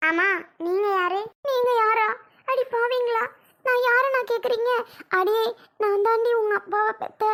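high, loud indignant scolding; outraged grandmother. Acted. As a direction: scold them at high pitch, wounded and affronted. Grandmother outraged at not being recognised.

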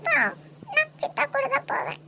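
put-on tearful child's protest. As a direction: whine it through tears. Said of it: "அழுவாத, வா".

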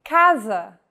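casa with the C as a hard K. Shown as a demonstration. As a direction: say casa starting on a K sound. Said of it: "the letter C sounds like this".

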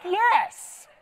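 high, loud triumphant yes; inner yes. Retold or imitated. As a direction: punch the air in your head. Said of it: "I thought".

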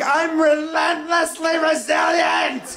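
very high, loud, drawn-out shriek; melodramatic scream. Retold or imitated. Patient jabbing dull pencil at neck, melodramatic scream. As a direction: scream it as a crazed battle cry.

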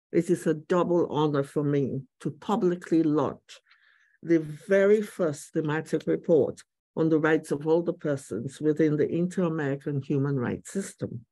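muffled behind a face mask; speaking through a face mask. Real, not acted. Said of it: "Do forgive my mask".

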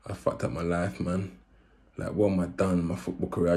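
soft, low despairing thought; murmured regret to himself; quiet regret. Retold or imitated. Retold regret first night.

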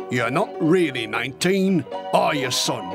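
doubt the lad gently; sceptical old sergeant. Acted. Sergeant seeing through the boy's lie, sceptical.

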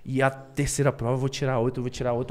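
quiet, tearful low mumble, repeating it to himself; crying. Retold or imitated. Student retells crying over failing the test, quiet and tearful. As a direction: whimper it softly like a student about to fail. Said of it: "aí chorando".

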